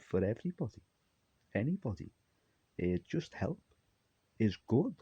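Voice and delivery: high, lightly voiced mock sing-song; a hint of the character's gushing lilt; imitating Ava Merriam. Retelling a show scene, a character's voice in mild sing-song. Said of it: "he said".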